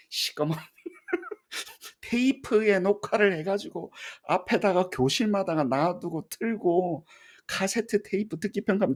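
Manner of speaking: laughing, high-pitched reminiscence; amused. Real, not acted. Lecturer recalling old cassette listening tests to students, amused and laughing.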